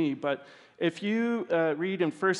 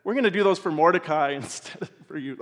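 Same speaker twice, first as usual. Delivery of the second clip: stifled laughter breaking through; fighting back a laugh; trying not to laugh. Acted. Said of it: "I'm trying not to laugh".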